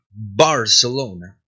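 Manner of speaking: "Barcelona" with a full, closed-lip b; "Barcelona" opened on a clear b; firm B. Shown as a demonstration. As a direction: model "Barcelona" with the B well pronounced. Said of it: "bien pronunciada".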